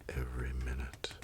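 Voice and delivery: telling a sad comic scene to viewers, in a mock-tragic hushed voice. Mock-solemn narration dying away to near silence.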